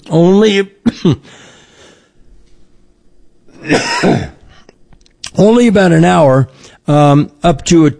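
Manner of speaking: coughing fit. Real, not acted. Coughing fit while talking.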